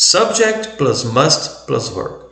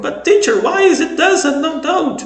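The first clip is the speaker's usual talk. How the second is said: much higher puzzled student voice; student asking the teacher, high and puzzled; confused student. Retold or imitated. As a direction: squeak it out like a confused pupil.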